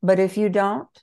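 put-on retelling the author's words in a Brazilian accent. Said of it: "I'm doing a Brazilian accent".

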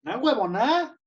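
high, exaggerated Venezuelan exclamation; badly faked Venezuelan accent. Host trying Venezuelan slang on guest, badly faked Venezuelan accent. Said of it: "no, no me salió. ¿Muy falso?".

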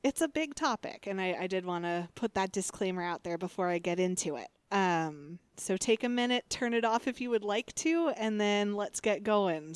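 firm, clear classroom instructions; teacher voice. Shown as a demonstration. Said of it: "you just heard my teacher voice".

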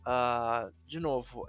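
ordinary talk, nothing marked

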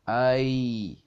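narrated drawn-out cry of fright; scream. A narrator's reading. Emily screams at the creature, stretched mild scream. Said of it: "امیلی جیغ کشید".

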